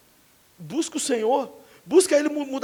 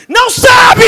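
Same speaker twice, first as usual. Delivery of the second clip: high, much louder burst; loud cry; 11 semitones higher, 15 dB louder, much slower than usual. Acted. Preacher answering critics, loud high cry. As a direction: belt it out in indignation.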